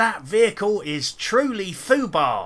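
fake, wrong-sounding Cockney. Complaining about lines game avatars say automatically, quoting one in a fake Cockney accent. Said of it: "in a fake Cockney accent".

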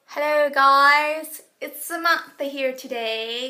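bad fake Australian accent, very loud. Introducing themselves to viewers at the start of a video, in a fake australian accent. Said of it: "with my fake Australian accent".

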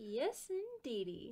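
put-on Southern accent. Opening chapter 3 of the Hawkins Mansion, speaker adds a put-on southern accent. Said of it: "Is Meli keeping a southern voice".

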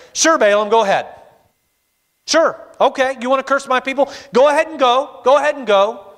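thoroughly sarcastic tone. Retelling the story, the speaker voices God answering the sorcerer, mock-sarcastic. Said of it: "God very sarcastically says".

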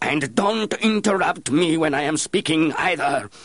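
very high, loud, roaring outburst. Embarrassed at his own scream, he follows it up by roaring. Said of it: "he followed it up by roaring".

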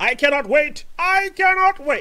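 high, loud excited squeal.

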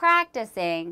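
practicing with first syllable prac- leaned on. Teaching where the stress falls in practice: stress on prac- in practicing. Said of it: "practice의 강세가 중요하니까 한번 들어보세요 ... 앞에 이렇게 나오게 돼요".

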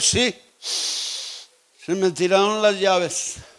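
put-on very slow, drawn-out, drunk slurring of words.

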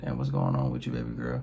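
very low, sultry, seductive murmur. Showing how to talk to her while looking in her eye: seductive voice. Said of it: "You're talking to her like this in a seductive voice".

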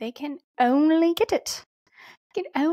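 slipping into British accent. Explaining how pets get vitamin D, slipping into British accent. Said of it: "where that British acc-, accent just came from".

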